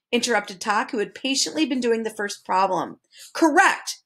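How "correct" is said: shouted. A narrator's reading. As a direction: call it out in triumph. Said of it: "shouted the dodecahedron".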